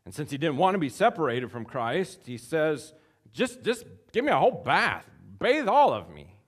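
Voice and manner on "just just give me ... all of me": high, loud pleading; overeager, all in; eager overreaction. Acted. Preacher voicing Peter begging for a whole bath.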